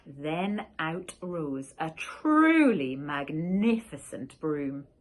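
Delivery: plain reading voice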